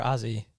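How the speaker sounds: Aussie said with a Z; correcting pronunciation. Shown as a demonstration. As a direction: stress Aussie as "Ozzie". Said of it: "No, but they're".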